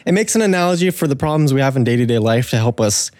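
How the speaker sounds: breathless talking; out of breath. Real, not acted. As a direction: speak short of breath. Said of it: "Sorry, I'm, like, out of breath".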